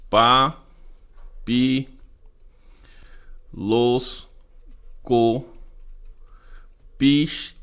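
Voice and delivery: each syllable set apart with long pauses. Shown as a demonstration. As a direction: count out the syllables one at a time, slowly. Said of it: "Quais são?". (sílaba por sílaba, pausadamente)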